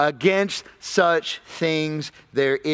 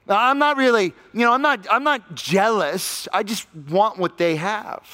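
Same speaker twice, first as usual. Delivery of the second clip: mock excuse; 3 semitones higher than usual. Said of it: "tries to water 'em down".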